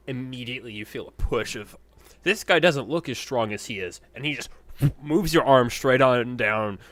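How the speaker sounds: loud, animated play-by-play; game master narration. A narrator's reading. Game master describing the match to a player, animated narration. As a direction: narrate the arm-wrestle with force.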